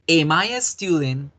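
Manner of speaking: "Am I a student?" with am said clearly and the question rising; teacher models "Am I a student?", am pronounced carefully; pronouncing am in a question. Shown as a demonstration. Teacher to Spanish-speaking class, modelling am in a question. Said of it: "esa es la pronunciación del am en la pregunta".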